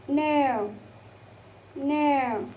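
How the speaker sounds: "nail" drawn out with falling pitch; example word demo. Shown as a demonstration. Teacher giving an example word, drawn-out pronunciation demo. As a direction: model "nail", gliding through the vowel. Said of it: "as in the word of".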